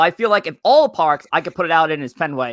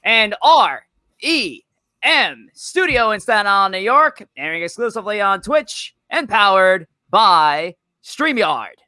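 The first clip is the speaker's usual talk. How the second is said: punchy podcast host intro, stretched opening words; live-show host kicking off the broadcast; show-opening announcer; 3 semitones higher than usual. Acted.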